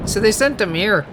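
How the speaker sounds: light Cockney, dropping the H in "him"; Cockney twang, "sent 'im here"; Cockney accent. Shown as a demonstration. Twin explains the madman, in a light Cockney accent. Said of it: "a Cockney accent or something".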